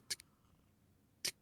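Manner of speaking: soft ticking like a Geiger counter; clicking tick. Shown as a demonstration. GM imitating the Geiger counter's ticks, soft. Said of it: "It's just like".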